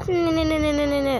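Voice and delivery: mocking taunt. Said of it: "Sabi niya".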